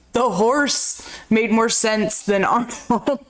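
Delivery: slow, lightly put-on reviewer voice; mock critic. Quoting the review of Arnold, slow and lightly put-on. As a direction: drawl it out like a snide critic. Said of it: "He's like".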